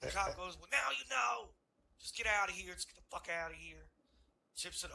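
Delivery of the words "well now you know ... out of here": annoyed cop. Retold or imitated. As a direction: shoo them off, exasperated. Cop dismissing them.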